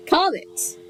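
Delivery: high, ad-style brand name; high announcer voice. Shown as a demonstration. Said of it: "by Comet".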